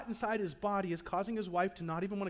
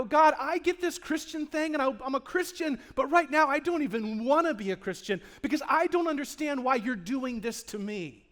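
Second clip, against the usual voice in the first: louder, higher, raw outcry to God; anguished prayer; 4 semitones higher, 4 dB louder than usual. Retold or imitated. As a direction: pray it from the gut, breaking. Believer crying out to God.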